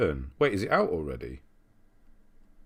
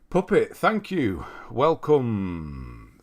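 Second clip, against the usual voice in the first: excited thanks; 3 semitones higher, 7 dB louder, much slower than usual. Real, not acted. Thanking a new member on stream.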